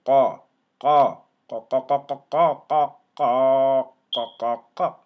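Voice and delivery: Qa, Qa barked loud from the back of the throat; letter drill. Shown as a demonstration. Teacher drilling qaf for students, loud. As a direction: hammer Qa out again and again. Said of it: "drilling letter qaf".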